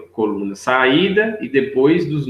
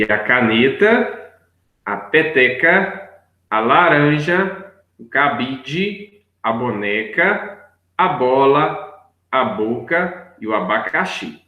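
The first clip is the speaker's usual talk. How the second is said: slow listing; slower than usual. Shown as a demonstration. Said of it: "reading picture names aloud".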